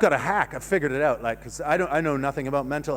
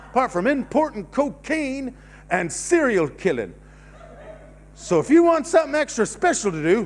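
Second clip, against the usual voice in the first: lightly hammed-up Florida TV pitchman; seventies Florida TV advert. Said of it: "nineteen seventies Florida. I'm on T V in Florida going".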